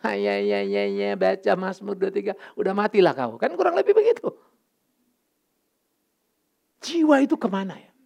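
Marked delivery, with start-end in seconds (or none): 0.0-3.4 a hint of a bored careless pastor; lightly voiced dismissive priest; dismissive pastor on duty reading a psalm; mock indifferent pastor. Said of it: "kalau pendeta formal ya cuma tugas".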